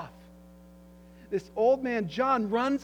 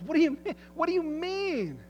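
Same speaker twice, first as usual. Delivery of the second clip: higher, louder alarmed repetition; shocked disbelief; 9 semitones higher, 5 dB louder than usual. Acted. Old apostle hearing his disciple is dead, alarmed and disbelieving. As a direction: demand it twice, stunned. John shocked by bishop's news.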